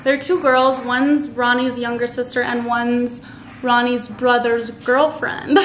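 ordinary talk

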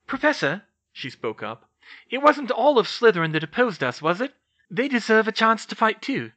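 speaking up. Acted. Hermione speaks up.

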